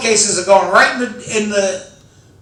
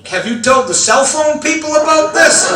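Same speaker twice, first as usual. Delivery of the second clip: mock amazed shout; 9 semitones higher, 4 dB louder than usual. Joking to pacemaker technician.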